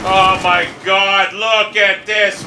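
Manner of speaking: slow, drawn-out exasperation; exasperated. Real, not acted. Gamer fed up with what the game shows, exasperated. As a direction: drag it out in real disbelief.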